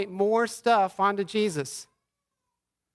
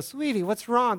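put-on gently higher, soothing a crying child; tender comfort; 4 semitones higher than usual. Father comforting crying daughter, gentle and tender. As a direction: soften it like hugging your daughter. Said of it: "And I embrace her, and I go".

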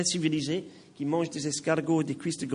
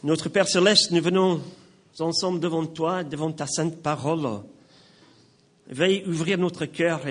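earnest, measured prayer with firm openings; public prayer. Real, not acted. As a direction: pray aloud for the congregation in spaced phrases. Leads the congregation in prayer. (prière publique, fervente et posée)

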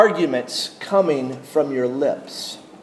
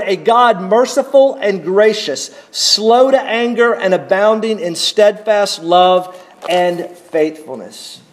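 raised, fervent scripture reading; preaching scripture; 3 semitones higher than usual. Acted. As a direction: proclaim it to the congregation. Reads scripture with fervor.

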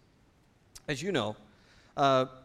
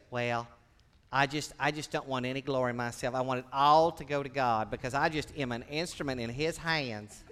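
fake humility; 3 semitones lower than usual. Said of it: "at least not in that fake manner".

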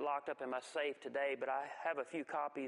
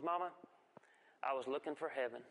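put-on innocent child's answer; 3 semitones lower than usual. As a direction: answer like a guileless five-year-old.

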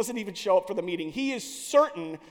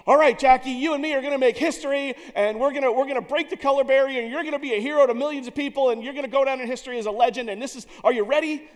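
loud, fast, pumped-up promoter; hyped sales pitch; 5 semitones higher, 7 dB louder, faster than usual. Retold or imitated. Owner pitching Jackie the fake glory version, loud hype. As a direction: oversell it like a cheesy hype man. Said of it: "pitch meeting did not go like this".

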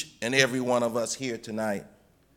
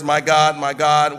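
louder cry; 5 dB louder than usual. Acted. Preacher repeats Jesus' cry.

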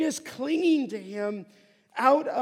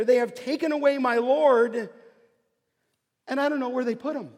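distressed Mary; 3 semitones higher, 6 dB louder, faster than usual. Acted. Mary lacking faith, distressed.

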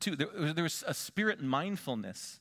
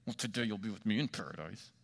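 soft, gentle, full of love; tender and full of grace; 3 semitones lower, 5 dB quieter, faster than usual. Shown as a demonstration. Preacher voicing Jesus to the criminal, tender and soft. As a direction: say it with compassion, softly. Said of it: "full of love and compassion".

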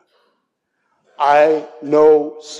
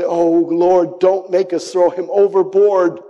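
raised-pitch plea; pleading; 4 semitones higher than usual. Acted. Sailors pleading with the Lord over Jonah, mildly urgent. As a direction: beg with a touch of urgency. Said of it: "they pleaded".

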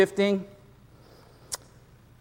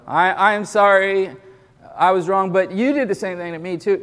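half apology; 3 semitones higher than usual. Shown as a demonstration. Pastor showing a congregation the excuse-laden apology, defensive. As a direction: start sorry, then shove blame back. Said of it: "you know".

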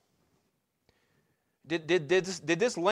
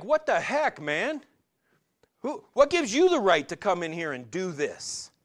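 hammed-up angry crowd, pitch up; imitating angry traders; 4 semitones higher than usual. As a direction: act out the merchants' indignant "what the heck". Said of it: "They're angry".

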